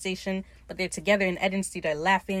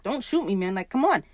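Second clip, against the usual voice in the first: mock panic. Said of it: "Steed's freaking out".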